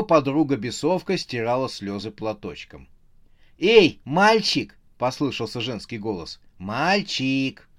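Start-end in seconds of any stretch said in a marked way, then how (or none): 3.6-4.8 loud, high, drawn-out hail; calling out. A narrator's reading. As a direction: call a boy over from afar. Clowness calls out to the imp. (громкий протяжный оклик)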